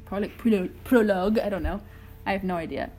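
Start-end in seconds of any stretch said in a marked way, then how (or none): 0.0-1.4 unsure stab at French pronunciation; trying out a French accent, growing bolder; attempted French accent. Shown as a demonstration. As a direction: try the word with a tentative French accent. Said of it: "How do you say prologue in French?".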